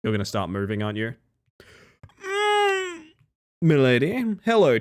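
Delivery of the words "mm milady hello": high nasal mock milady; hammed-up neckbeard tipping fedora. Fedora greeting to chatter.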